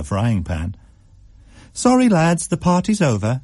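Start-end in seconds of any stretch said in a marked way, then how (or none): 1.7-3.4 shooing the mice with a wink; Mum to the mice. A narrator's reading. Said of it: "she said to the mice".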